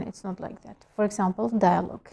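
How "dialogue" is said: British pronunciation. Shown as a demonstration. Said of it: "In British".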